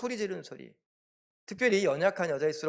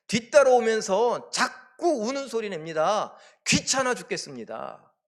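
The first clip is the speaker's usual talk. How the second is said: acted annoyance; 5 semitones higher, 5 dB louder than usual. Disciples complain of the woman following them, annoyed. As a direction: grumble as a pestered disciple. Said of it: "귀찮아한다라는".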